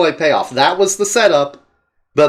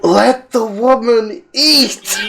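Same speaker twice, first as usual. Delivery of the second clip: indignant call; 5 semitones higher, much slower than usual. Real, not acted. Protests for the character.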